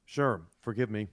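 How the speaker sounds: talking while chewing food; crunching lunch. Real, not acted. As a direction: mouth full of crunchy food. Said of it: "I'm crunching lunch".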